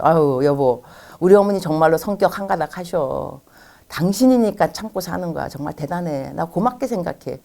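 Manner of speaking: gentle, appreciative reassurance; soothing husband. Shown as a demonstration. Husband soothing wife, model reply.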